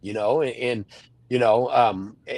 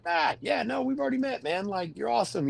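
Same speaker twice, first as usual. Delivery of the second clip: higher, softer voice, imitating a friendly greeting; imitated friendly acquaintance; 8 semitones higher, 6 dB quieter than usual. Wrestler voicing people he has met before, imitated friendliness. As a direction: lightly mimic someone reassuring him, pitched up and soft.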